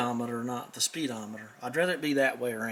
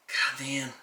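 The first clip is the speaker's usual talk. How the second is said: whispered. Real, not acted. Muttered oath over old part.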